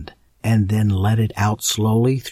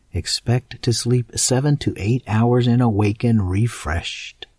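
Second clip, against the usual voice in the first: guided meditation. Acted. Guided relaxation script.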